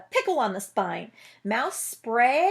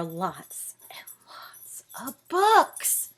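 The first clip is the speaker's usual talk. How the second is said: slow breathy whisper of awe; much slower than usual. A narrator's reading. Narrator whispers the line.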